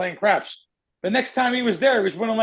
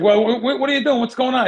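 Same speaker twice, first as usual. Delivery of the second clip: freaking out; 5 semitones higher, 4 dB louder than usual. Retold or imitated. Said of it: "He freaks out".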